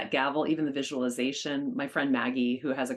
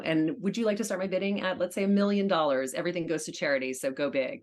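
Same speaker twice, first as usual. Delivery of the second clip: auctioneer; 3 semitones higher than usual. Shown as a demonstration. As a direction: work the room like a charity auction host. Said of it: "can you give us a tidbit of your auctioneer voice".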